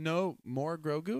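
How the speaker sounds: put-on slow insistent toddler plea. Dad mimicking his son insisting on Grogu, slow. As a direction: stretch it out like a stubborn little kid. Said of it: "He kept saying".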